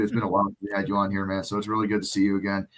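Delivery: rough, worn-out voice; hoarse voice. Real, not acted. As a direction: speak with a voice that's gone. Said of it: "my voice is gone".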